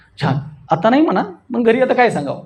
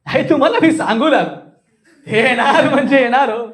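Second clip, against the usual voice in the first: higher-pitched voice made in the throat; 4 semitones higher than usual. Shown as a demonstration. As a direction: push it up into the throat. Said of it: "हे गळ्यातला आवाज असतो".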